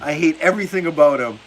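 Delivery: mock the fan's rant on Brady. Streamer quoting a chatter's Brady rant, mock rant. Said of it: "going in on Tom Brady".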